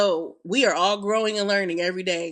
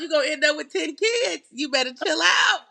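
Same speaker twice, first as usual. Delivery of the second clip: raised, higher voice telling him off; half-playful yelled warning to chill out; mock scolding shout; 5 semitones higher than usual. Woman retelling how she yelled at her man to chill out, mock shouting. Scolding partner in retold scene.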